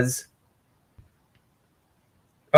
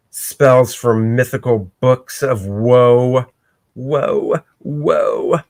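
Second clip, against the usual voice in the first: gloating villain; 3 semitones lower than usual. Acted. Villain gloats in comic retelling.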